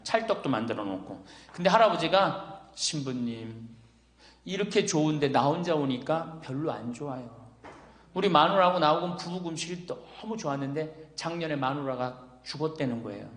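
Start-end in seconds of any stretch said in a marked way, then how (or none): 2.7-13.3 subdued widower. Retold or imitated. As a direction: quietly imitate a lonely old man. Retelling a lonely widower's confiding.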